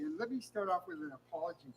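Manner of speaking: after mouth surgery, slurred speech; mouth full of marbles. Real, not acted. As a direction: talk like your mouth is full. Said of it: "if I sound like I'm speaking through a mouthful of marbles".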